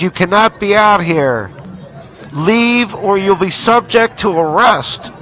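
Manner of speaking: through a megaphone. Real, not acted. Police dispersal order at protest.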